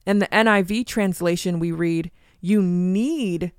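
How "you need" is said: "need" stretched out, then held before going on; stress on need. Real, not acted. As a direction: lean long on the word "need". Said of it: "The key word I'm emphasizing".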